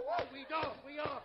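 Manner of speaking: excited yelling. Acted. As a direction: holler as the ride runs away. Riding a runaway kangaroo.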